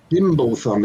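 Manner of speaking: Dimblethumb a touch slow and deliberate; said slowly. Shown as a demonstration. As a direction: take your time over Dimblethumb. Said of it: "demands to be said slowly".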